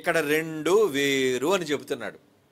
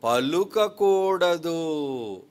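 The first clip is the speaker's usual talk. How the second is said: drawn-out verse reading; 4 dB louder, much slower than usual. Real, not acted. Preacher reads verse aloud, drawn out.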